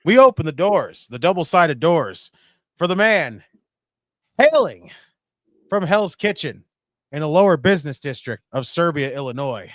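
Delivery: loud, booming wrestling ring announcer; ring announcer intro. Acted. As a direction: bring him in like a title fight.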